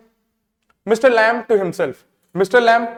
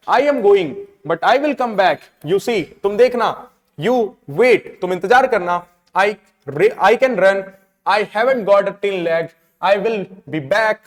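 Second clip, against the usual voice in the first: mild mock shout; much slower than usual. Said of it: "Derry gets up and shouts".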